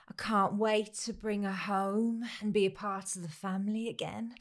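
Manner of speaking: soft, mildly mournful imitation; tearful video quote. Mum tells the camera about the sick puppy, mock tearful. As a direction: lightly mimic a tearful vlogger, trailing off quietly. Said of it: "Sniffles as her child whimpers beside her".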